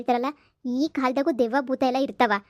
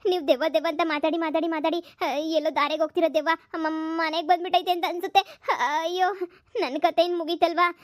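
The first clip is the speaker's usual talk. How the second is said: high, trembling fearful pleading; scared girl begging her aunt about the ghost; frightened; 5 semitones higher than usual. Acted. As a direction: fret in fear, still panicking.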